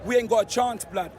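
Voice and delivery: laughing mock of dismissive rival fans. Fan mocking United supporters who wrote Spurs off, laughing sneer. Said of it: "You man said".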